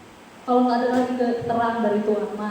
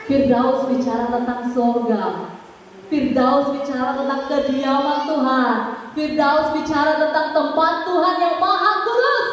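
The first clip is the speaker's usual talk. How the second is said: rhythmic repeated proclamation rising at the end; building preaching; 4 dB louder than usual. Real, not acted. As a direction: build each phrase toward a ringing climax. (khotbah berirama, makin memuncak)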